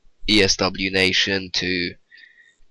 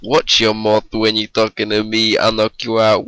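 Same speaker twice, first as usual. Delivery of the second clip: swaggering loud taunts; 2 semitones higher, 5 dB louder than usual. Acted. Reciting song intro as taunt.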